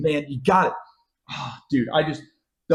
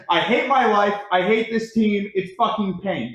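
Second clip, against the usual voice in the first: higher-pitched, hammed-up misery; mock despair; 3 semitones higher than usual. Fan reading out his despairing messages, mock despair. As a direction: read it out like a lightly mocked cry of anguish.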